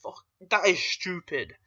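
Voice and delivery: mock disbelief, whispered high and very slow; incredulous aside. Reviewer recalling his reaction to the jaw scene, incredulous whisper. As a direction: hiss out how stupid it is. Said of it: "I'm like".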